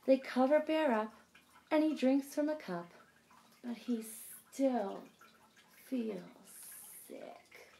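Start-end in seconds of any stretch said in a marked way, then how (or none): 3.6-7.7 each word softer, last one breathed; fading to a whisper. A narrator's reading. Reading to kids, the refrain fading to a whisper. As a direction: let the refrain die away.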